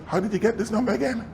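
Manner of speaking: surprised. Retold or imitated. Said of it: "he just stopped me and says".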